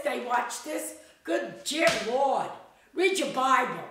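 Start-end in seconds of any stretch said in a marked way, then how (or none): 1.2-3.8 exasperated scolding. Real, not acted. Exasperated scolding of young people.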